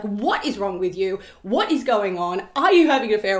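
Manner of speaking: wife confronting her husband at the wharf, angrily; livid confrontation. Retold or imitated. Wife demands answers from husband, building to a shout. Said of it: "she is livid".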